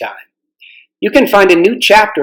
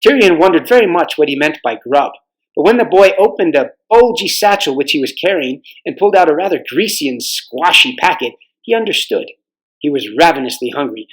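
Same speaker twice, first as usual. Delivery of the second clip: story narration. A narrator's reading.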